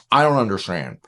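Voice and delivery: low mock grumble; hammed-up negativity; negative whining. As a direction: grumble like a chronic complainer. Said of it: "If you're negative all the time".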